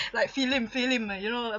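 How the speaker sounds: film as filem with extra vowel; Singlish film. Shown as a demonstration. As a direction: say film as filem, two syllables. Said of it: "so many different Singlish ways".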